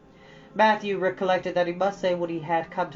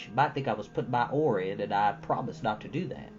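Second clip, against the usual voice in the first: put-on a touch lower, gentle coaxing old farmer; lightly voiced shy old man; 6 semitones lower, 5 dB quieter than usual. Matthew urging Anne to apologize, gently coaxing. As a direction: coax her quietly, shy and earnest.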